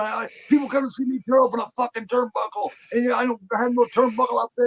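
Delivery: high, loud mock tirade; imitated yelling. Veteran wrestler yelling at a young referee, mock outraged shouting. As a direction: rant at full voice, mimicking an outraged wrestler. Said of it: "about ten minutes of yelling at him".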